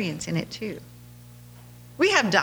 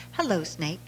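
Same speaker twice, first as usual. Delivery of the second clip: gentle greeting; 3 semitones lower, 5 dB quieter than usual. Retold or imitated. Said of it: "he taught his son".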